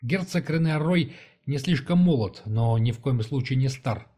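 ordinary delivery, nothing marked

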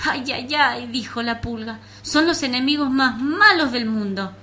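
alarmed flea voice. Acted. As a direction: cry out in alarm.

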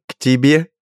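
high, loud amused squeal; incredulous through tears of laughter; laughing disbelief. A narrator's reading. Richard laughs at the bearish friend being pursued. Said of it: "утирая слёзы".

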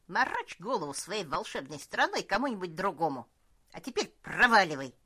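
put-on loud, indignant old cook; angry old cook. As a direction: tell him off and order him out. Cook rebukes the elf.

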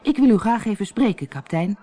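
courteous, gentle request; mild polite tone; politely. Acted. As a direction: ask the captain politely. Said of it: "zei Harlekijn beleefd".

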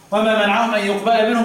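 y, not t, at the start of يقبل; recited verse with masculine يقبل; masculine reading. Shown as a demonstration. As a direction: recite وما منعهم أن يقبل منهم with yuqbala. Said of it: "بالتذكير".

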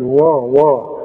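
وا وا said slowly, syllable by syllable; slowed syllable. Shown as a demonstration. Teacher breaks down the word for students. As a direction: sound out وا slowly twice. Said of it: "قبلها بتقول ايه".

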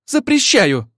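high, loud forbidding cry; echoing cry. Acted. Ольга вторит Милене, громко запрещая Максиму. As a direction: forbid it at the top of the voice. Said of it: "вторила ей Ольга".

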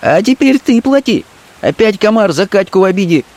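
high scornful woman's voice; a street girl scoffing at the threat; Fenka contemptuous. Acted. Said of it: "окончила она с презрением".

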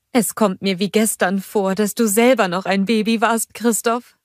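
cheerful motherly troll greeting; Bulda's voice. A narrator's reading. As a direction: welcome them home warmly. Bulda reminisces.

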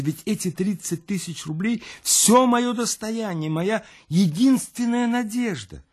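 high, distraught lament; despairing cry. Acted. Louise crying out about her savings, high and distraught. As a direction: voice of losing everything. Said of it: "вскричала Луиза".

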